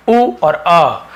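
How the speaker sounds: उ और अ said slowly, each vowel drawn out; slow sound demo. Shown as a demonstration. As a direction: stretch the vowels उ and अ. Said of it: "यू में भी तीन है". (उ और अ को धीरे-धीरे खींचकर)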